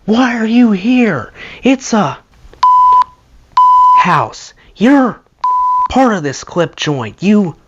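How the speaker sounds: high-pitched indignant shout, imitating an angry Swede; Mickey. Bandmate yelling at French riot police, high angry shout. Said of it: "Mickey shouting".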